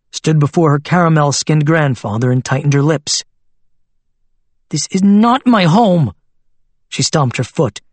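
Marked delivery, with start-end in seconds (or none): 4.7-6.1 put-on a six-year-old yelling her refusal; angry child shout. Girl shouts at her grandfather about her new home, defiantly.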